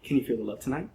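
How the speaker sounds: a quiet, mock-romantic question; soft cheesy line. To his date on the bench: quiet cheesy pickup line. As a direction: murmur the song title as a pickup line. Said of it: "and I go".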